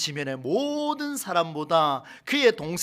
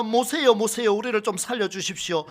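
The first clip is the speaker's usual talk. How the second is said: pleading cry; 4 semitones higher than usual. Acted. People crying out to Moses.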